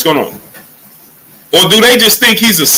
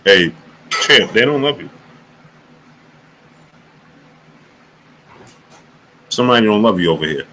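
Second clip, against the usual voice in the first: low, much softer, quick; mock whisper; 7 semitones lower, 5 dB quieter than usual. Streamer pretending to whisper to Chisora, low and quick. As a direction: murmur it fast into his ear. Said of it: "I be wanting to whisper in Chisora's ear".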